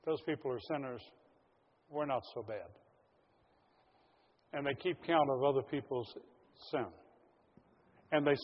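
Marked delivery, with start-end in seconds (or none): 0.0-2.7 smug self-justifying. Retold or imitated. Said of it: "they feel justified in saying".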